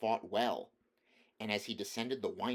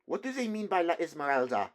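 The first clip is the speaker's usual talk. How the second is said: higher, louder cry of despair; 8 semitones higher, 6 dB louder than usual. A narrator's reading. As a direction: wring the words out helplessly. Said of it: "wringing his hands in despair".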